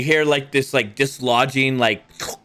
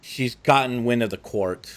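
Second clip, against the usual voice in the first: scheming vampire; 2 semitones lower than usual. Acted. Game master voicing the court schemer, coolly dismissive. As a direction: shrug off the girl's fate.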